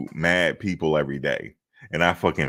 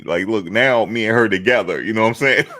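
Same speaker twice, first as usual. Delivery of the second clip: high, louder, laughing through the words; 5 semitones higher, 6 dB louder than usual. Real, not acted. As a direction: laugh at your own foolishness while saying it. Laughing at his own belief.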